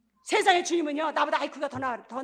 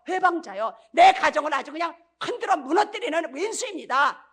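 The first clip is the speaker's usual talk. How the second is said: loud confessing prayer; 4 dB louder than usual. Pretend. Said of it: "물어봐야죠".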